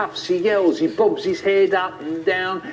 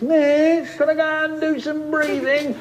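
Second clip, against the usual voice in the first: put-on very high whining child; whiny kid; 13 semitones higher than usual. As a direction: plead in a whiny little pupil's voice. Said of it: "The whiny ones".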